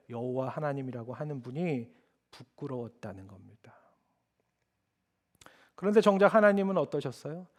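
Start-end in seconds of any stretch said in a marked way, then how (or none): 0.1-3.8 softly voiced, nearly unvoiced; hushed whisper. Real, not acted. The preacher whispers to the congregation about shame, hushed whisper. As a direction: whisper it, as if ashamed to say.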